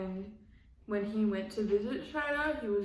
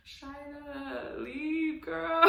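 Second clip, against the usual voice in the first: higher and rising, ending in a laugh; pleading cheer, breaking into laughter; urging her to leave; 6 semitones higher, much slower than usual. Real, not acted. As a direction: call out to her like a friend. Calling out to the cast member.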